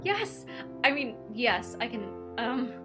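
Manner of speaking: high yelp, then reining herself in; eager young heroine. Acted. Girl agrees to meet guard, eager and flustered. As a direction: blurt it eagerly, then backpedal shyly.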